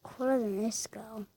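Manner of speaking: secret unvoiced whisper; hushed sneaky remark; whispered aside. Real, not acted. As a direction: whisper it behind her back. Private aside.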